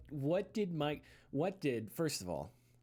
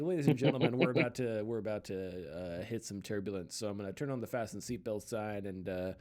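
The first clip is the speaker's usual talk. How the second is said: pilot announcement voice; 5 semitones lower than usual. Retold or imitated. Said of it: "doing his best to do his pilot voice".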